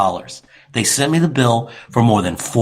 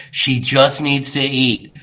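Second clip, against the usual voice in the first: insistent explanation; 3 semitones lower, slower than usual. Retold or imitated. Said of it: "And I told this lady that. I said".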